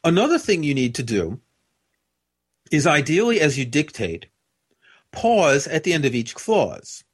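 long deliberate pauses between every clause; pausing after each clause. Shown as a demonstration. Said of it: "the way I just spoke is".

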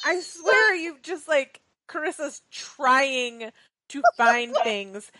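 high, slow, giggling complaint; laughing protest. Real, not acted. Teasing cohost about embarrassing topics.

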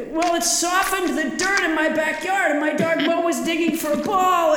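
shouting up out of a cave; big hall echo. Pretend. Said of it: "You sound very echoey".

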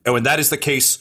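theatrical lecturer, building in insistence; pontificating schemer. Acted. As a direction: explain it like grand wisdom to a junior. Phalox explains his blow dart plan.

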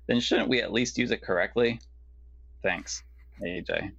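storybook reading voice. Acted. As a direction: read it like a Dr. Seuss book. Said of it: "like you're reading a Doctor Seuss book".

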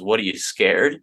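coworker teasing, a light challenge; mock taunt. Coworker needling him about his 401(k), mock taunt. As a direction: needle him like a jokey bully. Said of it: "And he goes".

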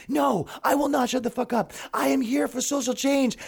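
high self-righteous mock voice; earnest activist. Activist refusing to shut up, mock righteous voice. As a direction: sound proudly principled.

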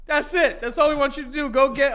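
spraying spit on the words; spitting while talking. Real, not acted. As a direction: spit flying as you speak. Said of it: "I spit everywhere".

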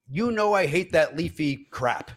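slow, deliberate imitation of a grumble; cleaned-up retort. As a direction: spell out your disgust slowly. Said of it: "I'll clean it up".

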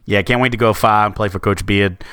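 a quick hammed-up Boston accent on Coach Beard. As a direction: toss off the recruit's line in a mock Boston accent.

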